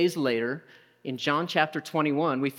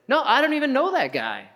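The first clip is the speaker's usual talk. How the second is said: high, louder panicky denial; panicked denial; 9 semitones higher, 4 dB louder than usual. Acted. Peter cornered by the fire, denying high and frantic.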